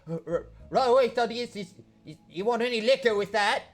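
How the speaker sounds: high, loud, stammering servant voice; nervous little orc. Acted. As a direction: squeak it out like a jumpy underling.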